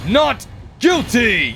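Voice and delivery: verdict shout. Acted. Judge delivers the verdict.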